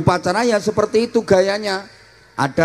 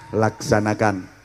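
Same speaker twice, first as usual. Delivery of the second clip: principal's reply; 8 semitones lower, 5 dB quieter than usual. Shown as a demonstration. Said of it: "Inspektur jawabnya".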